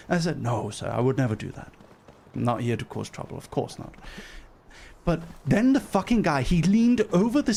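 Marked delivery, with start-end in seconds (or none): 0.4-3.9 low, soft, dutiful denial; meek reassurance. Retold or imitated. Passenger reassures steward she means no trouble, meekly. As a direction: assure him humbly, dropping away.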